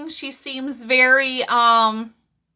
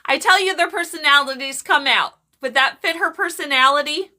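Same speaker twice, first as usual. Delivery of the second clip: excited, slightly raised voice; 3 semitones higher than usual. Real, not acted. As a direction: pipe up a little too keenly. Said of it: "I don't know why I'm shouting".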